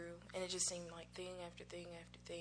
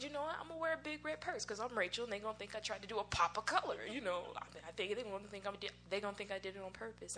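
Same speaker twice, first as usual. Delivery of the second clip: playful defiance, raised and loud; defiant resolve; 3 semitones higher, 5 dB louder, faster than usual. Retold or imitated. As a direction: declare it like you've decided, a touch hammed-up. Retelling second defiant decision.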